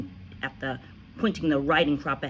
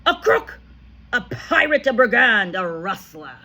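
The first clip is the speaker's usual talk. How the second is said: loud, much higher string of insults; screaming accusations; 7 semitones higher, 10 dB louder than usual. A narrator's reading. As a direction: hurl each name at him.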